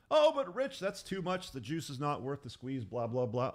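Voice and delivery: mock objection. Imagined listener objecting to Rich.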